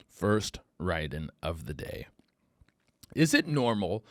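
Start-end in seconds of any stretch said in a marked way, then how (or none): 0.1-2.1 whispered aside. Real, not acted.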